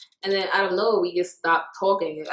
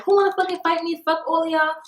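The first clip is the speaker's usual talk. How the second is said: retold scream; 9 semitones higher than usual. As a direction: yell it out like you're ready to brawl. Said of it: "screaming, like".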